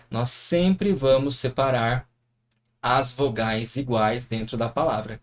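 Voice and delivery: slow, deliberate statement of the rule; slow emphatic rule. Shown as a demonstration. Teacher to students, repeating the rule slowly.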